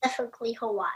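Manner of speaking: whispering. Real, not acted. Child whispers his answer.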